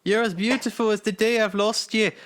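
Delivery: lightly voiced movie Viking; put-on film voice. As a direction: read the meme line as the bearded Viking. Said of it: "I don't know why I'm doing this voice".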